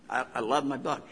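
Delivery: quiet, tender "I loved my Bug"; fond, quiet. Real, not acted. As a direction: say it to yourself like a fond memory. Same words said again quietly.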